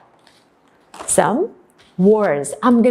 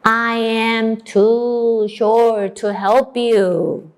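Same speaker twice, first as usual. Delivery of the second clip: turtle voice; much slower than usual. Acted. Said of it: "the turtle said".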